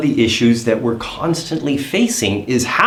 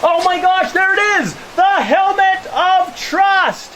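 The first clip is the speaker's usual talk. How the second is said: excited; 4 dB louder than usual. Pretend. Finding the helmet, playful excitement.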